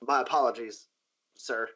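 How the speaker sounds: mildly sheepish apology. Acted. Guard apologising to his boss, sheepish. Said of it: "like, sheepishly and goes".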